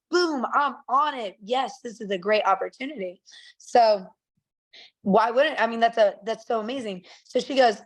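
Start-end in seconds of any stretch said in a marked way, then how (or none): 0.1-3.2 retold excitement. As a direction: imitate a keen new hire, mildly excited. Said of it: "he was excited about it".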